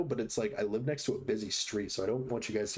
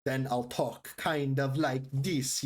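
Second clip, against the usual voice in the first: Scandinavian accent; slower than usual. Shown as a demonstration. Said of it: "a Scandinavian accent".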